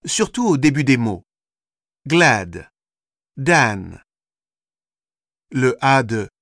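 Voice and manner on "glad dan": "Glad, Dan" with firm opening consonants; vigorous initial consonants. Shown as a demonstration. Teacher demonstrating English consonants, "Glad, Dan" started with vigour. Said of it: "prononcées avec plus de vigueur".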